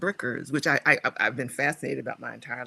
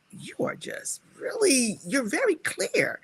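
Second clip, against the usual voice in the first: high, slow, admiring friend; lightly voiced admiring friend; friend's voice; 9 semitones higher than usual. Friend praising her clarity, lightly voiced. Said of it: "she's like".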